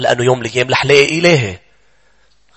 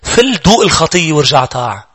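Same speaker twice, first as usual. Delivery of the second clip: slow, coaxing devil luring a believer away; tempting devil; 2 semitones higher, slower than usual. Acted. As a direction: drawl it out like a sly tempter. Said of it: "الشيطان عم بيقول لك".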